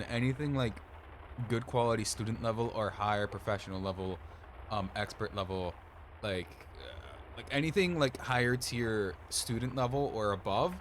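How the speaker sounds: ordinary talk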